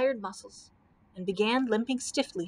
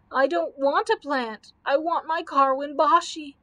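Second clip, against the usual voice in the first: put-on raised, louder childlike lament; broken-hearted sobbing; 5 semitones higher, 5 dB louder than usual. A narrator's reading. Camel misses his lost master, broken-hearted wail. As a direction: wail it plaintively, as if near tears. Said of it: "sobbed the Comfortable Camel, broken-heartedly".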